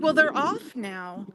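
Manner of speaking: mildly imitated rude reply, slow; understated mock rudeness. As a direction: drag it out like a dismissive clerk. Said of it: "like, rudely to me".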